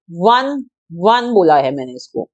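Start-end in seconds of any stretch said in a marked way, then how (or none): 0.1-0.6 "वन" said with a clear w sound at the start. Shown as a demonstration. Teacher shows students how "वन" sounds. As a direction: say "वन" slowly, stressing the w. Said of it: "अब मैं इसको कैसे बोल रही हूँ".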